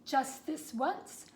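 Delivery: slow, gloating dragon; sly dragon. Acted. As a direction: savor every word like a hungry dragon. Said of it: "with a glint in his eyes and said".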